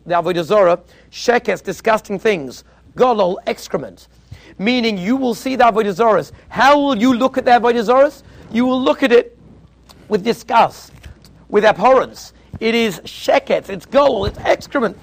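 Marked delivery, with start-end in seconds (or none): 4.6-15.0 louder, higher, full disgust; disgusted preaching. Real, not acted. Preacher telling the crowd to see idols with disgust. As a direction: spit out each word as filth. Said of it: "preaching disgust at idols".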